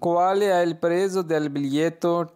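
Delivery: very slow, each syllable clear; slow model sentence. Shown as a demonstration. Teacher reading the Italian phrase for students, very slow. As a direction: read it out slowly for learners to repeat. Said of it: "Prezzo बोलते हैं कीमत को".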